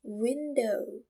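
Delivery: "window" drawn out slowly as one smooth word. Shown as a demonstration. Teacher models "window" slowly for students. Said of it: "Say it slowly".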